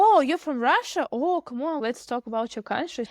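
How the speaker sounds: acted high, excited exclamation; eager interest. Acted reaction to someone's country.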